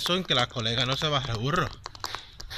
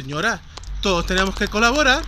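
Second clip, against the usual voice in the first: louder, higher imitation of a pushy woman; cocky scolding tone; 5 semitones higher, 6 dB louder than usual. Big tough volunteer telling an old lady to contribute, imitated cocky tone. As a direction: lecture her loudly, imitating a bully. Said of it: "pero con este tono".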